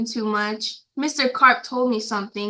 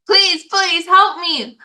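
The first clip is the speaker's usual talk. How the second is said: slow, higher begging; pleading; 7 semitones higher, 5 dB louder, slower than usual. Acted. Boy phoning Mister Carp, slow higher pleading. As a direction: beg for help on the phone. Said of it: "I said".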